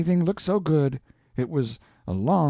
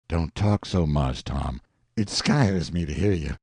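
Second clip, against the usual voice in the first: earnest Jim; 6 semitones lower than usual. Acted. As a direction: lay down the proof like plain common sense. Jim voiced, frightened.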